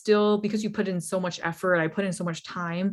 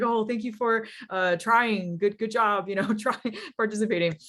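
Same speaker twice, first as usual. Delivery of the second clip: a lightly higher, halting, condescending "good job, trying"; mock awkward consolation; 3 semitones higher than usual. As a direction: play the organizer patting a loser on the head, mildly. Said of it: "kinda awkward".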